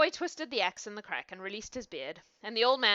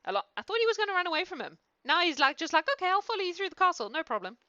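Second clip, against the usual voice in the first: mocking; 9 semitones higher, 4 dB louder, faster than usual. Reader mocks boy's compliance.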